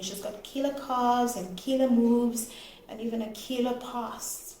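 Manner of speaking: repeated emphasis on "killer"; stress on killer. Real, not acted. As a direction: lean on "killer" each time it comes. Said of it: "Emphasis on the word killer".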